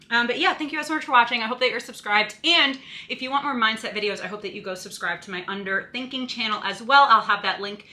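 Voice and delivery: breathless, catching her breath. Real, not acted. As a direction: talk while still winded. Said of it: "I don't know why I'm out of breath".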